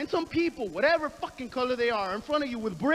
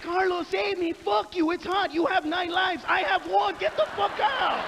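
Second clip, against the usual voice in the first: cat and owner dialogue; 4 semitones higher than usual. Pretend. Cat begging, owner refusing.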